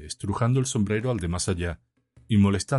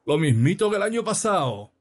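high, singsong heckle; loud mocking exclamation; 10 semitones higher, 4 dB louder than usual. A narrator's reading. Drunk heckling the priest's sermon, loud and high. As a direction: call it out high for all to hear. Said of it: "exclamó en voz alta Bayonetas".

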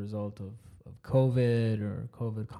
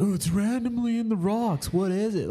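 mock bewildered voice; 10 semitones higher, 4 dB louder than usual. Mocking people tripping about monolith.

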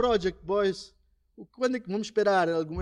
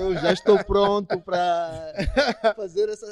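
laughing; 6 dB louder than usual. Real, not acted. Joking about a new beat.

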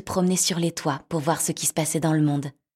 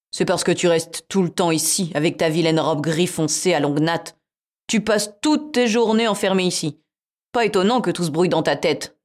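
cat voice; 5 dB louder than usual. Acted. Cat voiced in fairy tale.

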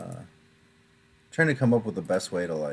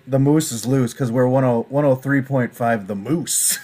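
shock jock. Retold or imitated. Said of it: "But then I say".

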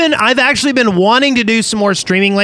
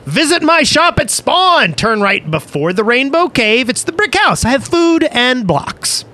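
excited advert read; 5 semitones higher than usual. Acted. Reads sponsor's shop advert.

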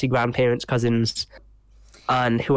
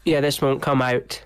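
blocked nose. Real, not acted. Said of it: "if my voice sounds a bit stuffy".

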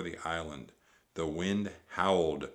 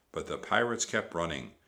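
usual speaking voice

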